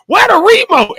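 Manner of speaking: "remote" as REE-mote, pitched very high; stress on RE. Retold or imitated. Friend retells Lorna hunting for the remote, REE-mote stressed. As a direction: imitate her, hitting the first syllable of "remote". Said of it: "She put the emphasis on re".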